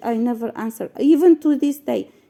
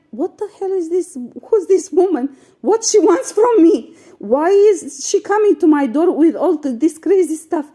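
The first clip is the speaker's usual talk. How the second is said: shocked disbelief; 4 semitones higher than usual. Retold or imitated. Vlogger recalling the neighbour's complaint, shocked disbelief. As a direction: reel back in shock at her. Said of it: "I was shocked".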